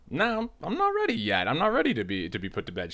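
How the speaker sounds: high, loud mock ghostly whine; ghost grandma's voice. Grandma's spirit refusing to stay buried, high whiny voice. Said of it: "my grandmother deciding".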